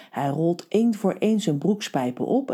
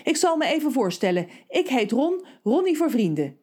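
firm voice; 8 semitones higher than usual. Acted. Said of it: "zegt dan met ferme stem".

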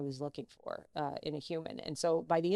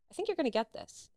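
higher voice at normal volume; retold confiding verdict; 8 semitones higher than usual. Casting woman's first verdict, retold.

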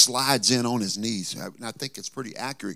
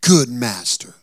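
sweet-voiced flattery; 5 dB louder, slower than usual. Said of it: "his voice was so sweet".

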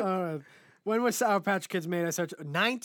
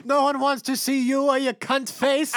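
mock angry yell; 8 semitones higher, 8 dB louder than usual. Mock yelling at store lady.

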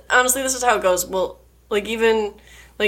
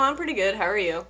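softer reply, sinking lower at the end; low-key reply; 4 semitones lower, 5 dB quieter than usual. Retold or imitated. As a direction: imitate your own unenthused small talk, letting it drop. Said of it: "and then I'm like".

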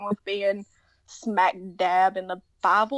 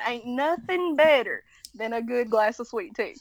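put-on country Southern accent. Showing friends how Southern talk goes, in a country Southern accent. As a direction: lean into a folksy Southern twang. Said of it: "that's when you start going".

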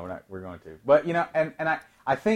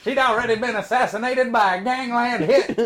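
dramatic narrator; 6 semitones higher, 4 dB louder than usual. Acted.

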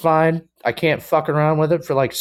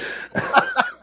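high laugh that hurts; pained laugh; 4 dB quieter than usual. Real, not acted. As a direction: laugh through the pain. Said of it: "'cause it hurts".

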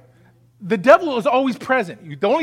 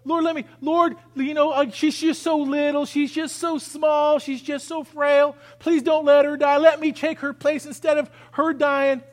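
higher, imploring minister begging God; pleading prayer; 5 semitones higher than usual. Retold or imitated. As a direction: plead to trade places with the child. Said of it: "He goes".

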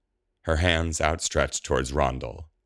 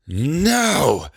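high, loud, drawn-out scream of refusal; loud high-pitched howl of denial; enraged cry; 13 semitones higher, 6 dB louder than usual. A narrator's reading. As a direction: cry out in frustrated fury. Spell fails, she heaves book away.

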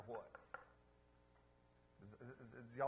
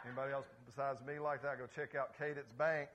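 fast, louder, laughing through it; laughing aside; 2 semitones higher, 6 dB louder than usual. Real, not acted. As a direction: chuckle it out to the crowd. Laughing, lively aside to congregation.

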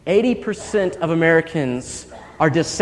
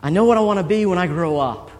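put-on proud child. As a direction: lightly imitate a proud little boy announcing news. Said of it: "he says to his mom very proudly".

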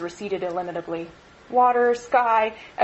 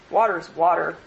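ordinary delivery

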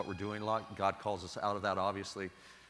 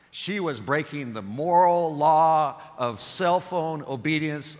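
much louder, higher, slow mock indignation; mock outrage; 6 semitones higher, 11 dB louder, slower than usual. Preacher mocking the phone woman, hammed-up loud outrage. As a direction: boom it like a grand accusation.

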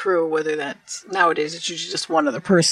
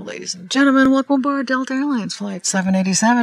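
louder, higher cabin announcement; pilot announcement voice; 4 semitones higher, 4 dB louder than usual. Shown as a demonstration. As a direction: welcome passengers over the intercom. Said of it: "Oh, you have a good pilot voice".

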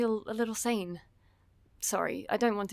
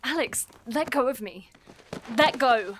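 scared, pulling away; 4 semitones higher, 4 dB louder than usual. Acted. Grabbed by the arm, resisting.

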